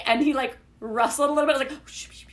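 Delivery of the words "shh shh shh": whispered shushing into a tiny squeal; quiet squealing. Retold or imitated. Wife trying not to wake husband, quiet squealing. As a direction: imitate hushing yourself while still squealing. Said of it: "quiet squealing".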